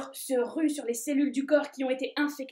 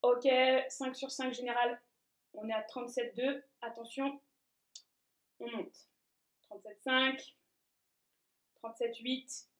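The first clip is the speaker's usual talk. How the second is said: quiet readout; 7 dB quieter than usual. Acted. Temperature control reads the thermometer.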